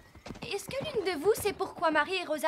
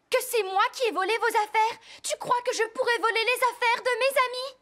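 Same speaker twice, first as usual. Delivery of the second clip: indignant outburst; 4 semitones higher, 4 dB louder than usual. Acted. Sarah accused of theft by friends.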